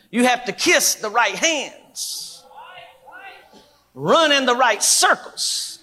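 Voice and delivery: emphatic pulpit delivery with drawn-out phrase endings; preaching. Acted. Preacher warning church leaders about revival, emphatic preaching. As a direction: preach it to the room, landing each point.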